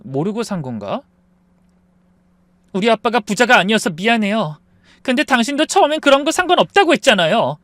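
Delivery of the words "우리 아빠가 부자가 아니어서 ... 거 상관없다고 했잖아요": bitter anger. Acted. 부부싸움, 아내가 원망함.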